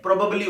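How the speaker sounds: probably as PRO-buh-blee; short "buh" in the middle of probably; correct pronunciation. Shown as a demonstration. Teacher correcting students, probably with a reduced middle vowel. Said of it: "क्या होना चाहिए?".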